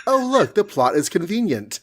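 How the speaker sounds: laughing through a sarcastic quote; a giggly, sarcastic Johnny Storm; laughing mock quote. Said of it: "Johnny Storm is like".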